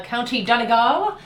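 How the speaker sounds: Donegal with the stress on its third syllable; Irish pronunciation. Shown as a demonstration. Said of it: "I just pronounced that correctly".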